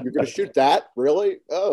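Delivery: mock incredulous questioning; complaining screenwriters. Screenwriters reacting to a director shooting their script, mock dismay. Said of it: "screenwriters on some of his movies complain".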